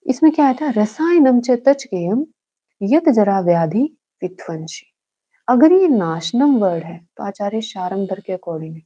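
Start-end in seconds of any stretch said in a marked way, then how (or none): 0.8-4.9 shlok recitation. Shown as a demonstration. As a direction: start raised, then drop on the last word. Recites the exam version of shlok.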